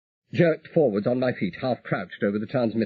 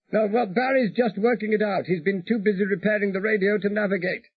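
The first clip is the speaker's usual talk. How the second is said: higher, breezy pilot voice; voiced pilot Peter, reassuring; 10 semitones higher than usual. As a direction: wave away the worry lightly. Peter on radio.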